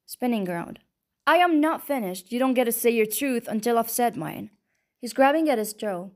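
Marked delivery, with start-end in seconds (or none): 1.3-4.5 firm anger. Acted. She refuses to be interrupted.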